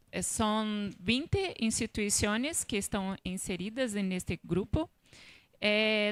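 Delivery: Spanish laced with Portuguese words; portuñol. Real, not acted. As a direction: speak Spanish with Portuguese slipping in. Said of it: "portuñol es portugués con español".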